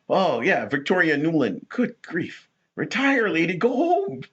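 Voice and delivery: sneering, rising high on retire lady go home; mocking dismissal. Americans telling Victoria Nuland to retire, mocking high voice. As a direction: brush her off like a tired joke. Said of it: "Americans saying".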